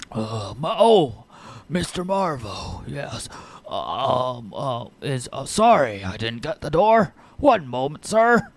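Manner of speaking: put-on an old driver caught off guard by Marvo; old halfling driver.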